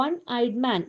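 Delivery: slow, "one" said as "wun" with a w sound; "one eyed man", each word slow, "one" as "wun"; pronunciation demo. Shown as a demonstration. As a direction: spell out how "one" begins with a w. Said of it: "pronounce ചെയ്യുന്നത് എങ്ങനെയാണ്".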